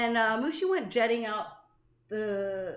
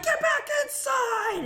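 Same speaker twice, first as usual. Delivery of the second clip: high, slow shouted order; shouting command; 14 semitones higher, slower than usual. Retold or imitated. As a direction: bark it at the kid. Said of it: "And so I'm like".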